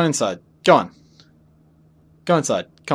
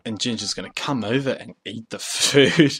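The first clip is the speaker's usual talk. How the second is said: odd drawn-out way; 2 semitones lower than usual. Real, not acted. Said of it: "I don't know why I'm talking like that".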